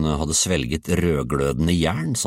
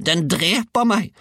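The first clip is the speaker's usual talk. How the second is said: high, drawn-out cry; shrieking old woman; 12 semitones higher, 3 dB louder than usual. A narrator's reading. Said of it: "skrek hun".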